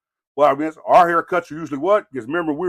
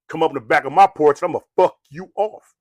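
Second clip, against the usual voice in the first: mock threat; 4 dB louder than usual. Shown as a demonstration. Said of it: "See how that's said?".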